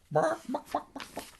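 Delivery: very high yappy barks; dog barking. Acted. Hypnotized Donald barking like a dog. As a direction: yap like a little dog.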